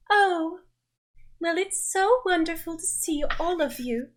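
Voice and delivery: grand dame greeting her guests; ethereal, dramatic. Acted. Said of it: "ethereal, dramatic sense of self and goes".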